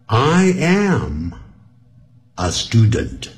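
I am, pause, a student; careful, unlinked teaching model; slow reading. Shown as a demonstration. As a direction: read it slowly for beginners. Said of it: "我是慢慢的念哦".

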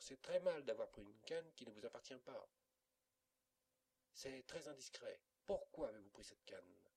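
reproche sévère, plus fort; tante en fureur. A narrator's reading. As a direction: gronder l'enfant pour la canne. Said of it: "dit une tante en fureur". (la tante gronde Amédée, colère marquée)

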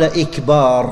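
"إكبار" with the vowel after the b drawn out as "ikbaar"; long ba vowel. Shown as a demonstration. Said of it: "أو قال".

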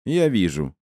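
a short grumbled retort; mildly grumpy. Acted. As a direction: grumble it back, pitched slightly up. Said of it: "буркнула моя собеседница".

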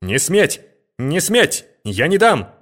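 high, rising mock outcry; heated shout. A narrator's reading. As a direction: shout him down, pitch climbing. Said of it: "азартно закричал он".

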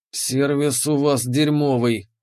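slow hoarse wheeze; hoarse rasp. Acted. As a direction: rasp it out, beaten but defiant. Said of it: "прохрипел я". (хриплый голос)

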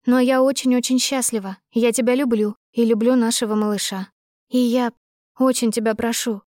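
a hint of the anxious, loving young woman; lightly voiced heroine. Heroine begs him to accept their baby, lightly voiced earnestness.

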